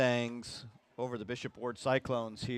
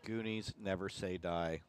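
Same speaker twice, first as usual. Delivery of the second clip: radio voice; 3 semitones lower, 5 dB quieter than usual. Pretend. Broadcaster answers his partner's movie quote for fun, radio voice. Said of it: "Been working on my radio voice".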